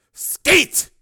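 loud, high angry burst; through gritted teeth. Acted. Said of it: "he said through gritted teeth".

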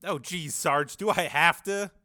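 reluctant private's appeal; stricken reluctance. A narrator's reading. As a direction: plead to get out of it. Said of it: "Private Jaworski looked stricken".

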